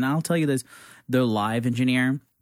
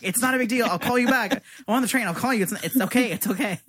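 reassuring; 10 semitones higher than usual. Retold or imitated. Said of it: "And I'm like".

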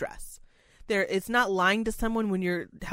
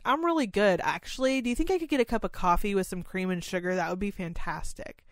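a hint of a suddenly chatty resident; lucid John. Resident John suddenly lucid asks caregiver for coffee, lightly voiced. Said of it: "And be like".

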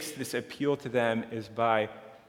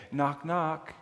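pleading prayer; 3 semitones higher than usual. Pretend. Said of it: "One way we might speak of this is to say".

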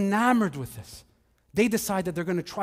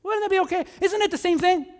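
rising, higher sly devil's voice; tempting devil; 5 semitones higher than usual. Acted. Preacher acting the devil tempting Jesus, higher and sly. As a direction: needle him with innocent questions. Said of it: "The devil just tells Jesus".

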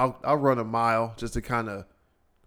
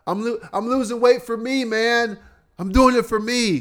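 mocking quote; 11 semitones higher, 5 dB louder than usual. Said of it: "you'll never hear me on the podcast say".

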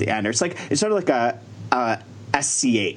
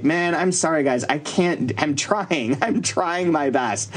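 hammed-up pleading apology; apologetic; 4 semitones higher, slower than usual. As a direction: plead with the crowd, half laughing at yourself. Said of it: "all my jokes are just like".

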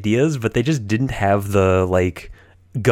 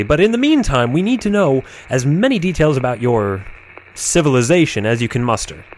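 Captain Murphy voice. Acted. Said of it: "the Captain Murphy voice".

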